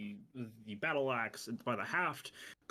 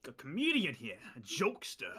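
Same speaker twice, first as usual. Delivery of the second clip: calling out; 2 semitones higher, 3 dB louder than usual. Acted. Bandit calls his gang.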